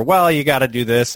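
imitated glossing over. Colleague imitating Shelley skimming over her skills, breezily. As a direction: toss it off as nothing special. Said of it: "Shelley just kinda gleans over".

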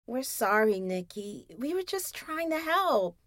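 soft, sheepish muttered sorry; quiet guilty mutter; muttered apology. Acted. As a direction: mumble it, head hung. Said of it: "Zoe muttered".

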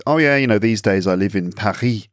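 put-on casual boast, Paris in a French accent; Paris as "pa-REE" with French R; pretentious French pronunciation. Showing off about living abroad, French accent on Paris. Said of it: "If I said".

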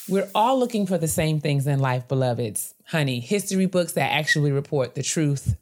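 smooth, even sponsor read; chatty scripted skincare promo. Acted. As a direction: read the sponsor copy clearly and steadily. Reads sponsor ad.

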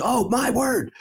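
high, imitated gasp of surprise; mock surprise. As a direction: play the wife suddenly realizing. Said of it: "She goes".

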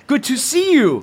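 arms wide, beg for a hug; caveman dad, affectionate. Acted. Ron greets his son.

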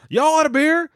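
put-on high, drunken holler at the clerk; drunk yelling. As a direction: bellow it like a drunk redneck. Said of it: "it's like yelling at the clerk".

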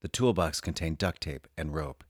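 soft sultry reading voice; sultry perfume ad. Acted. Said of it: "read that with a sexy, sultry voice".

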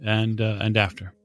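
lightly voiced Italian sweeper; Italian accent. Sweeper tells traveller of tending the station, Italian accent. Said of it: "You hear his Italian accent".

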